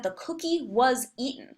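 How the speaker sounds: "was eaten" given the emphasis; stress on the action. Shown as a demonstration. Teacher showing passive voice highlights the action, stress on "was eaten". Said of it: "puts the emphasis on the action".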